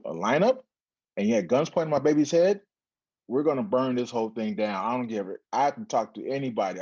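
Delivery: a hint of an outraged mother ready to storm city hall; mother vowing to burn it all down, mildly angry; furious mom. Mom furious about police lineup.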